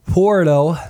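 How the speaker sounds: words stretched through a yawn. Real, not acted. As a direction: say it mid-yawn. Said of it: "Sorry, I keep yawning".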